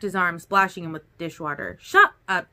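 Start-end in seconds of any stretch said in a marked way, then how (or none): 1.8-2.5 high, louder burst of annoyance; exasperated, punchy telling-off; mock-angry scolding. A narrator's reading. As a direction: snap at a teasing friend. Smacks his arm, scolds teasing.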